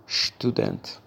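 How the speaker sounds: whispered شتودنت, sht at the start; soft correct form. Shown as a demonstration. Teacher quietly repeating the right شتودنت. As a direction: breathe شتودنت softly. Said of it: "تلفظ صحیح".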